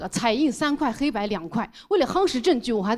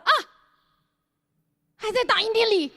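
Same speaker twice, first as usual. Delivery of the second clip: Thomas's sheepish reply; 9 semitones higher than usual. Retold or imitated. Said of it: "托马斯：".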